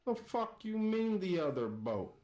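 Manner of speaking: high-pitched, incredulous angry retort; exasperated pirate captain. Acted. Pirate captain to a captive questioning his order, exasperated and high. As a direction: snap back in high, acted outrage.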